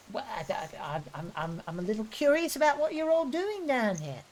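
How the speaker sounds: stammer, then pry sweetly; curious old lady. Acted. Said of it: "she says".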